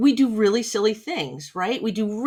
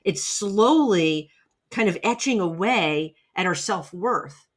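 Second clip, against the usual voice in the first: ordinary delivery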